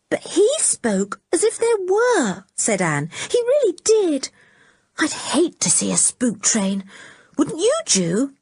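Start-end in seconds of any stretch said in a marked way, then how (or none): 0.1-2.4 put-on high, worried girl's voice; fretting over the spook trains; anxious Anne. A narrator's reading. Anne tells Julian of her worry, high and uneasy. 3.3-8.3 put-on high, worried girl's voice; fretting over the spook trains; anxious Anne. A narrator's reading. Anne tells Julian of her worry, high and uneasy.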